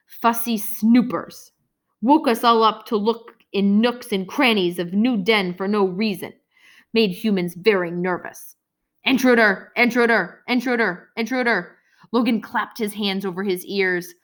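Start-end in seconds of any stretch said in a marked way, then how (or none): 0.1-8.6 lightly voiced bird creature. Scorp explains in his voice. 9.0-11.8 alarm voice. Acted. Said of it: "The voice bellowing in the air".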